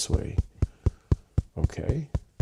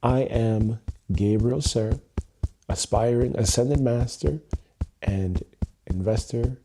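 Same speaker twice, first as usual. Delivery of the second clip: slow deliberate intro. Shown as a demonstration. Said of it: "That is a real different energy".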